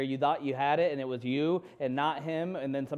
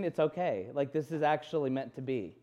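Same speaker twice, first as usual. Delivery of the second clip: comforting. Retold or imitated. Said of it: "this most comforting".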